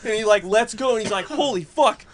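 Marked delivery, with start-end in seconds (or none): 1.3-2.0 high-pitched startled cursing; shocked exclamation. Retold or imitated. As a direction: imitate someone snapping out of panic. Dad waking in shock, retold.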